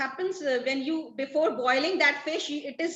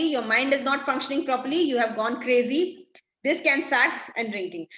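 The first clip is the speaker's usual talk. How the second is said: angry rebuke; 4 dB louder than usual. Acted. Trinculo angrily blames Stefano's drinking.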